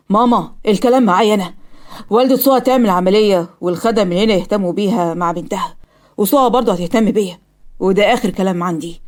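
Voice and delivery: mildly forceful, final tone; firm command. Acted. Son telling his mother his last word, firm. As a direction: lay it down as a settled decision.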